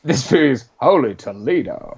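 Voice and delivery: slow mock American drawl; villain hamming up an American accent; put-on American accent. Podcaster quoting the disguised villain, slow fake American accent. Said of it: "a German villain doing an American accent".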